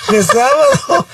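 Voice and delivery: high, laughing through the words. Retold or imitated. Wife laughs at husband's mistake, laughing. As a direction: giggle as you repeat it.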